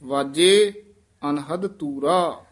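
ਵਾਜੇ, a pause, then ਅਨਹਦ ਤੂਰਾ; teacher models the line for the student, pausing after ਵਾਜੇ; paused recitation. Shown as a demonstration. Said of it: "ਇਸੇ ਤਰ੍ਹਾਂ ਵਿਸਰਾਮ ਲਾਉਣਾ ਹੈ".

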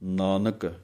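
ਨਾਨਕ as one flowing word, falling; don't split ਨਾਨਕ apart; smooth pronunciation. Shown as a demonstration. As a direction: model ਨਾਨਕ. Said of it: "ਵੱਖਰਾ ਵੱਖਰਾ ਨਹੀਂ ਕਰ ਦੇਣਾ".

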